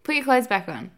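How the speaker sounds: laughing. Real, not acted. Laughing at partner.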